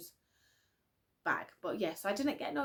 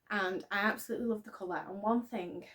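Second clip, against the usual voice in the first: out of breath; faster than usual. Real, not acted. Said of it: "sorry, I'm out of breath".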